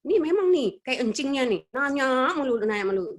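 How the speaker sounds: annoyed mother. Retold or imitated. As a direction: snap at the child like a fed-up mum. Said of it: "Kadang-kadang gitu kita ya".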